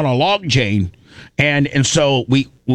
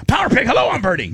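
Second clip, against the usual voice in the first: correct safe word; 11 semitones higher, faster than usual. Shown as a demonstration. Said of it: "Yes, you got it".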